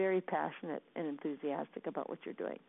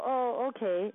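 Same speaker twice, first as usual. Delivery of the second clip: agreeable okay; 3 semitones higher, 4 dB louder, slower than usual. Shown as a demonstration. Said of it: "and we go".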